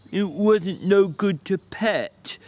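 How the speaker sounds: slow, simple, pleading big man; childlike Lennie voice. Acted. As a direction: ask like a slow-witted child. Lennie answers.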